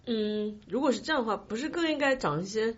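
ordinary delivery

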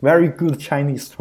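slow, drawn-out mock compliment; polite over-praise. Lightly voiced Chinese local flattering a foreigner's poor Chinese. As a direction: gush like a host praising a foreigner. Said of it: "我们都说".

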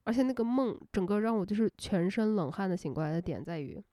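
ordinary delivery

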